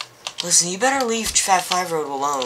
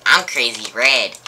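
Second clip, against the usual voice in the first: creepy villain; 4 semitones lower than usual. Acted. Creepy villain introduces himself.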